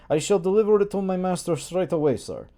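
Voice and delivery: put-on servant's heavy Slavic accent. Servant answers the master in thick Slavic accent. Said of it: "I gave him an accent".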